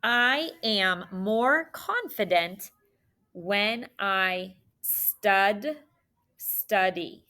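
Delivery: slow, word by word with pauses; dictation. Shown as a demonstration. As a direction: dictate so they can write along. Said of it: "One more time".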